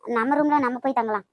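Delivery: mocking. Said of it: "என்னடி நக்கலா பண்ற?".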